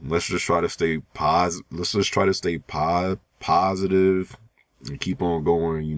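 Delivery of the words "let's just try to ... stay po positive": tripping over "pos-" and "po-" before "positive"; stuttering. Real, not acted. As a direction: restarts "let's just try to stay" twice, cut off on "pos-". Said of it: "I can't even talk without stuttering anymore".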